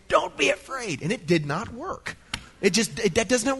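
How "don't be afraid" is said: mild mock yell at a scared toddler; retold scream. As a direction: shout it at a frightened two-year-old. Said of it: "at the top of my lungs, I screamed".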